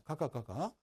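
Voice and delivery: Gyeongsang dialect demo. Shown as a demonstration. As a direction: say it with a Gyeongsang accent. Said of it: "경상도 사투리로".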